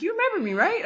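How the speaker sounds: high, bright mock imitation of the woman asking; imitating her. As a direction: pitch it up like the woman checking if you remember her. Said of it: "she was like".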